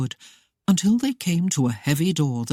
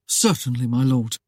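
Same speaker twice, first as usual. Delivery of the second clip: amiable obedience; 4 semitones lower than usual. Acted. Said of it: "Parker obeyed most amiably".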